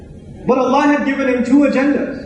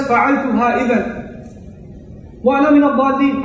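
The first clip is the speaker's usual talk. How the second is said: Quranic recitation; much faster than usual. Acted.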